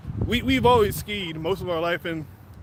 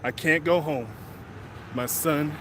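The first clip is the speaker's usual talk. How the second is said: low, soft, hollow dread; a father sure his son is dead, low and quiet; despairing; 6 semitones lower, 6 dB quieter, slower than usual. Retold or imitated. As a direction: mutter it as if all hope is gone. Dad's despairing inner thoughts.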